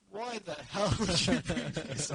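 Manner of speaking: slow, loud exasperated uncle; mock outrage. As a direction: imitate an uncle's incredulous scolding. Retold uncle's angry reaction to getting stuck.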